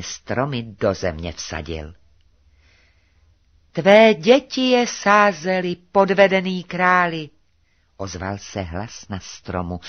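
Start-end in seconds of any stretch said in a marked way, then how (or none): 3.7-7.3 high, loud accusing call; loud accusation. A narrator's reading. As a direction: call it out high and forcefully to the deceived king. Bird's accusing revelation to the king. (hlasité, vyčítavé zvolání)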